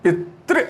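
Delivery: पितृ read out with a break before the last syllable; stress in पितृ. Shown as a demonstration. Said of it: "तो अब इसको पढ़िए".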